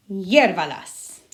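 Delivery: hiérvalas, slow, stress on the first syllable HIÉR. Shown as a demonstration. Teacher modelling the command for students, stress on HIÉR. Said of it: "we had to put our emphasis here".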